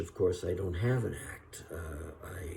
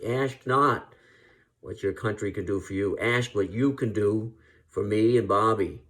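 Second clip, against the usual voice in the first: John Kennedy; 5 dB louder than usual. Retold or imitated. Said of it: "he could say".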